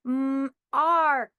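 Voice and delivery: Mm, arc said loud; sounds segmented. Shown as a demonstration. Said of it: "reread to check my work".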